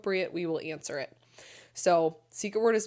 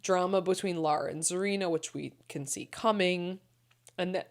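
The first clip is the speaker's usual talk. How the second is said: hiccuping; 3 dB quieter than usual. Real, not acted. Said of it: "sorry, I keep hiccuping".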